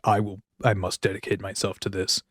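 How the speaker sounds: understated imitation of a self-serious rocker. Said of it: "his weird rocker way".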